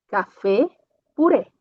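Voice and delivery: café and purê with an open, stressed final é; open E demo. Shown as a demonstration. Teacher modeling the open E sound for students, clearly stressed. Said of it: "o som vai ser E aberta".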